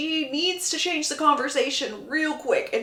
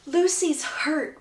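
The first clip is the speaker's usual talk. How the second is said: flirty; 5 semitones higher, much slower than usual. Retold or imitated. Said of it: "She bats her eyelashes and goes".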